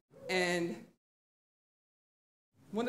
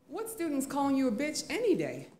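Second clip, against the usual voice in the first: higher-pitched, taken-aback question; incredulous comeback; 4 semitones higher than usual. Retold or imitated. Teacher answering the whispering colleague, incredulous. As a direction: throw the question back in disbelief.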